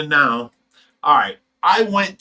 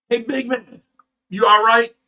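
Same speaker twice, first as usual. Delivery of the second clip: raised, higher call over the crowd; 6 semitones higher, 4 dB louder than usual. Retold or imitated. To a big stranger at a concert, a loud high call. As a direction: shout it up at the big guy to get his attention.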